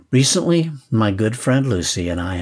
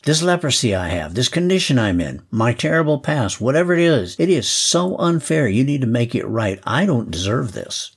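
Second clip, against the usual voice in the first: indignant demand; 4 semitones higher than usual. Acted. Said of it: "declared his rights".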